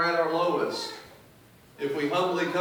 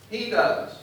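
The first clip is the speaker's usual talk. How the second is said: "he" lifted high and firm, then dropping on "does"; stress on he; 5 semitones higher than usual. Shown as a demonstration. David correcting those who credit other things, stress on "he". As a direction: punch "he" as the true answer. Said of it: "if you emphasize the word he".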